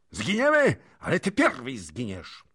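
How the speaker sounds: sudden high, loud outburst; fierce cry, easing slightly at the end; shouted threat. A narrator's reading. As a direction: burst out with a deadly threat. Armed princes threaten the envoy.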